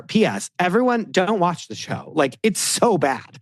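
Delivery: a touch of sarcastic whine; mocking impression. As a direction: mimic her griping to viewers. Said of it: "The whole episode is her".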